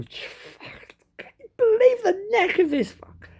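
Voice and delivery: hissy, unvoiced aside; whispered disbelief. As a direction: whisper your outrage to the woman opposite. Mock aside to the waiting woman.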